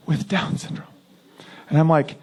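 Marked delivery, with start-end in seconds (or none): 0.1-0.9 hushed whisper. Retold or imitated. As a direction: whisper "with Down syndrome" as if it's taboo. Lady hushes the sensitive words.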